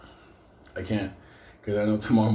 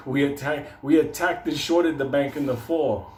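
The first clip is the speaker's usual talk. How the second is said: a pretend candidate shouts down a debate rival; mock debate rant; 4 semitones higher than usual. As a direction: bellow it at your opponent on stage. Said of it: "Imagine me debating somebody".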